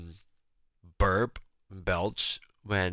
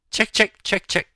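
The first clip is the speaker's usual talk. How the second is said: loud, high mic check call; 11 semitones higher, 7 dB louder than usual. Shown as a demonstration. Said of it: "Testing, testing".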